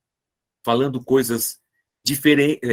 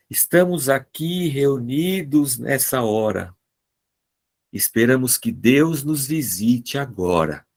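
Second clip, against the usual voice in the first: slow, measured poem recital; recited poem. Shown as a demonstration. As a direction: recite it like a little rhyming verse. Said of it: "Esse foi meu poema".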